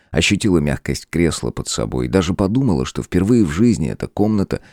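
plain reading voice

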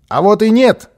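put-on high, loud child's protest; shouting. A narrator's reading. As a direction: shout it back defiantly. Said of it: "закричал малыш".

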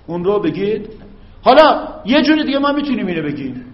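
usual speaking voice

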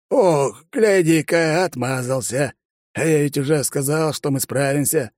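put-on crafty old man pressing about the wedding; sly old man. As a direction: tease like a mischievous granddad. Old man teasing again.

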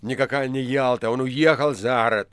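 agitated, emphatic exclamation; excited shouting. A narrator's reading. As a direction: declare it excitedly. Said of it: "возбуждённо кричал администратор". (возбуждённо, с напором)

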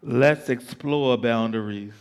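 slow, sensual spoken word; poem recitation. Acted.

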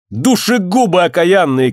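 high, drawn-out curse; acted woman's outcry; cursing cry. A narrator's reading. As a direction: fling it back at them. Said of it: "крикнула она".

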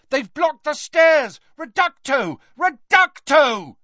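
high, loud battle shout. A narrator's reading. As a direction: shout the spell across the fight. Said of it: "a voice shouted".

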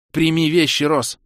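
loud, high desperate shout. Acted. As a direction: yell for help across the water. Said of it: "на её крик".

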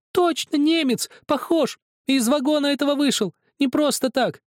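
put-on high, loud child's accusation; accusing scream. A narrator's reading. Zakhar screams at Helmut that he is German, high and loud. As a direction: hurl the accusation at him.

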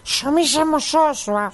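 slow, spelled-out repeat; slow and clear. Acted. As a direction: say it slowly so he hears. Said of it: "¿Eh?".

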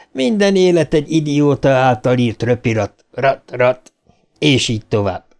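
lightly voiced mocking creature; taunting monster. The monster greets Bill in the void, lightly taunting. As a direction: taunt with feigned sympathy, in a slightly altered timbre.

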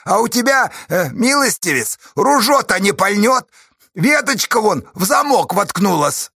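high, loud, jubilant taunting; gleeful crowing. A narrator's reading. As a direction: crow with delight at the enemy. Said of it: "Чупря счастливо захохотал".

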